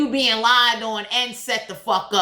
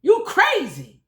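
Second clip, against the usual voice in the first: much higher, mock-shocked bystander voice; incredulous onlookers; 9 semitones higher than usual. Everybody turning to God in disbelief, high mock-shocked voice. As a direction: gasp it out like you can't believe what you're seeing. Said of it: "everybody looking at God like".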